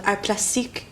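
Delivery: French-accented art term. Real, not acted. Naming a course studied in Paris, French accent. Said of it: "when I say it with a French accent".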